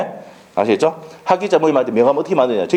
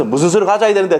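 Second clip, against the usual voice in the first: lightly voiced customer asking, higher; a hint of a curious client asking the agent; 6 semitones higher than usual. Client asks agent for documents.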